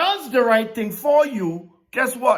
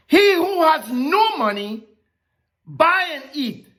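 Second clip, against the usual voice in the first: higher, calling the offer; voicing God; 4 semitones higher, slower than usual. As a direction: proclaim it as God's invitation. Preacher voicing God's offer.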